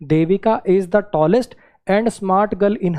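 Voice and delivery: slow exam-question read. Shown as a demonstration. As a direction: read the English sentence out slowly, word by word. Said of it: "कुछ ऐसा था".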